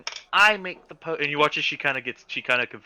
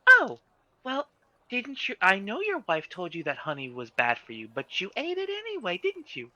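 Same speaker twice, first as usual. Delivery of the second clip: high, sing-song scolding voice pitched way up; scolding woman; 5 semitones higher than usual. Acted. Woman scolding a bear who ate honey, high sing-song chiding. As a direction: chide him like a nagging aunt, voice up high.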